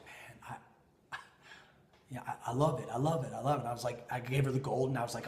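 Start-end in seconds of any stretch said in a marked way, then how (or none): 0.1-3.6 near-whispered, halting love it; overwhelmed and lost for words; breathless awe. Retold or imitated. Wife stunned by her gift, breathless awe.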